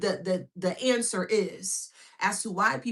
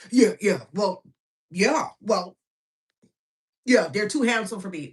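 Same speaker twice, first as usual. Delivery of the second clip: louder, lower, defensive mock voice; mocking the hater; 3 semitones lower, 5 dB louder than usual. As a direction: play the petty hater, blurting louder. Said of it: "And this is how they sound".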